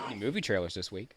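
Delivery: parroted query with "week" rising; Cameron. Pretend. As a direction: echo as a question, lifting "week". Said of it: "puts a question mark behind it".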